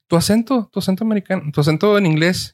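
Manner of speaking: high, lightly mocking quote; imitating them. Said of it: "¿Por qué?".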